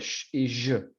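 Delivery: "sh" and "zh" as drawn-out fricative sounds; isolated hissing "sh", then buzzing "zh"; fricative demo. Shown as a demonstration. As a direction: sound out "sh" and "zh" as continuous friction. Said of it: "son fricativas, también estos dos".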